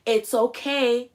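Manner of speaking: slow, high encouraging father; hammed-up reassuring parent; coaxing dad. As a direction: talk a scared kid into the pool. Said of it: "the father's like".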